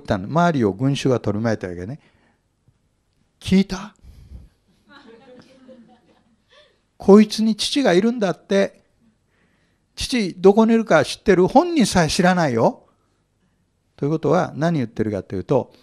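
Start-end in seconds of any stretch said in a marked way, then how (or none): 3.4-12.9 a hint of scornful taunting to the crowd; mildly mock the claim of a father; mocking sneer. Pharisee mildly taunting the crowd about Jesus's father, scornful. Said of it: "ちょっとやってみるね、その場面を。".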